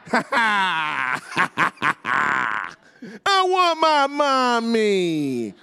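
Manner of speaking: high, drawn-out wail; crying kid. Retold or imitated. Small boy wailing for his mother after being told to hush. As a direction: stretch it out like a sobbing little boy. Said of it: "what happens when you tell a kid who's crying to be quiet".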